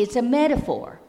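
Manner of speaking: lightly voiced ogre explaining; Shrek voice. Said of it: "Shrek says".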